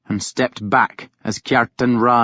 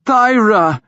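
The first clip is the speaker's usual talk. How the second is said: higher, louder call of her name; Ragnar calling her; 10 semitones higher, 5 dB louder than usual. A narrator's reading. Ragnar to his grieving sister. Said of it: "he said".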